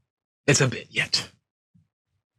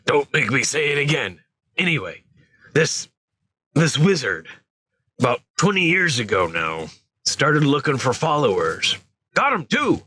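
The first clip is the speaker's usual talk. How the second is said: scared gentle giant, pitched higher; lightly voiced Hagrid, anxious and higher; 5 semitones higher than usual. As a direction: fumble for words like a frightened giant. Hagrid telling the dark history.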